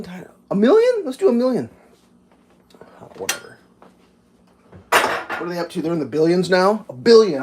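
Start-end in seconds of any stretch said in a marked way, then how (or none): 0.5-1.7 high mock excitement. Acting out greedy fraudsters.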